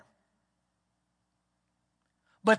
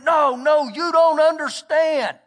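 raised, louder retelling of a distraught man; pitched-up, insistent protest, lightly dramatised; retold hysterical man; 5 semitones higher, 6 dB louder, slower than usual. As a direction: mildly act out a frantic protest, higher and louder. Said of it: "and he's hysterical".

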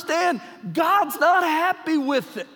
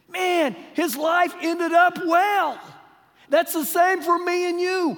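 emphatic preaching shout; 5 semitones higher, 4 dB louder than usual. Real, not acted.

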